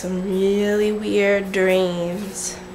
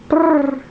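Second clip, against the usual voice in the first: shivering; 6 semitones higher, 4 dB louder than usual. Retold or imitated. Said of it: "This is what he does".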